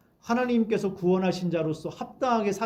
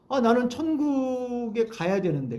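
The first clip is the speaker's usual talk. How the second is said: mock inner musing; 6 semitones higher, slower than usual. Voicing believer's inner thought.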